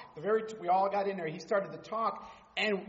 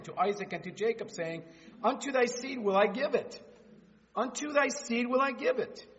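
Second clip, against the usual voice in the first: scripture reading. Acted. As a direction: read God's words with authority.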